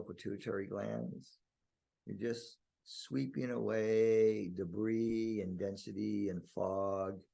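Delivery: drawn-out, calm visualisation; guided meditation. Real, not acted. Guiding listeners to clear their inner vision, meditative. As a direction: sweep tension away with the voice.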